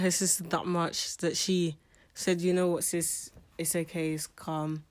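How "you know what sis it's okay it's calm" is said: soft, lower and settling; imitating a calm, hushed comfort; gentle reassurance. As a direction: quietly soothe a sister, dropping softer. Voicing a sister's reassurance.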